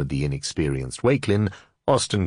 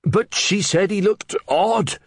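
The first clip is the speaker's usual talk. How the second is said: much higher, louder breathless blurting; excited Reeve; 4 dB louder, slower than usual. Acted. Flustered Reeve blurting news to the under-sheriff, much higher and louder. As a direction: tumble the news out, over-excited.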